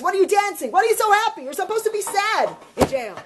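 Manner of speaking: baffled guard. Acted. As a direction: challenge the prisoners in mock outrage. Guard challenges happy dancing prisoners.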